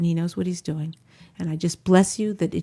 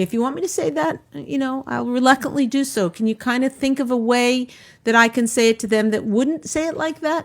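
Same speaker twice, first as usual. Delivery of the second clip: gently higher, sweetly coaxing request; sweet and nice; 3 semitones higher than usual. Acted. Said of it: "say it as sweetly and nicely like that".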